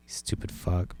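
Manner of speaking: hissed under the breath; a soft, breathy whispered put-down; whispered insult. Retold or imitated. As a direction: whisper the curse to yourself.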